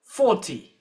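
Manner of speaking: forty with the weight on four; stress on four. Shown as a demonstration. Teacher modelling forty for the class, stress on four. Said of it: "the stress is on four".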